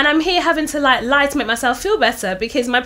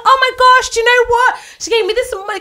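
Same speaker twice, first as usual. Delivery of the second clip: fake bragging voice; 12 semitones higher, 5 dB louder, faster than usual. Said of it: "'cause I felt shame".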